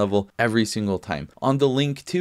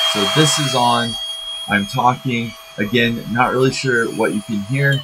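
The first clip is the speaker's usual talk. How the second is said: raised voice over a vacuum; louder, speaking over vacuum noise; over a vacuum cleaner; 4 dB louder than usual. Real, not acted.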